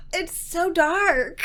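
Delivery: rueful laugh. Real, not acted. Laugh-sighing at a grim scene.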